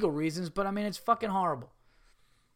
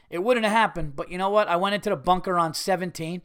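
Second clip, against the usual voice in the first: frustrated screaming rant. Real, not acted. Comedian ranting at his podcast audience, yelling in frustration. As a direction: scream it out like a fed-up dad who can't believe it. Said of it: "I know I'm screaming here".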